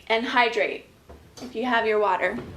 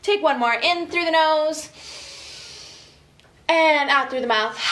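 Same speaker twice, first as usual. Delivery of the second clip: calm breathing guide. Shown as a demonstration. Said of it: "deep breaths".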